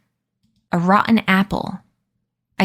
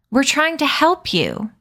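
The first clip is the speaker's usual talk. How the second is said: higher, rising on help; outraged plea; 7 semitones higher than usual. Acted. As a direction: plead in disbelief. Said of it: "Addison trembled with outrage".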